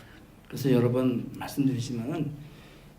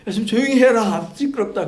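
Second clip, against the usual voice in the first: higher, louder mock hush, like an irritated elder; mock scolding; 7 semitones higher, 7 dB louder than usual. God imagined hushing the shouting saints, louder mock scold. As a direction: tell the noisy crowd to pipe down.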